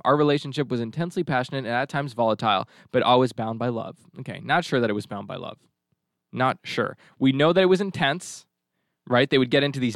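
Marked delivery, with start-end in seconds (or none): 0.0-4.0 sceptical second reading; pointed reread. Shown as a demonstration. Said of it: "I'll read it one more time".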